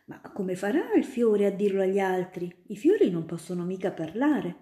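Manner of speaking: lightly voiced curious girl, a little quick; a child reporting, puzzled; little girl telling the student about the garden; little Ida. Ida objects.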